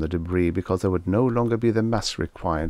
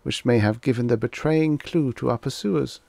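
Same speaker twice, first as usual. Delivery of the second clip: higher, measured voice of a grave alien warning; alien messenger voice; 7 semitones higher than usual. Acted. Dotty voicing the alien to the Wolvers, higher solemn envoy.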